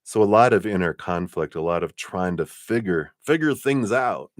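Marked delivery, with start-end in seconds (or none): 3.2-4.3 higher-pitched playful Southern twang; Southern accent. Pretend. Tarot reader slipping into it about inner conflict, Southern accent. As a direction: lean into a put-on Southern accent. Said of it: "I don't know why I went Southern accent".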